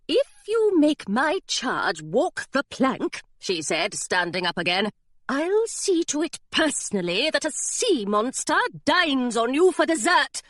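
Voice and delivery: high, slow, icy threat; threatening governess. Acted. Governess warning the pirate, high and deliberate. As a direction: spell out the threat word by word.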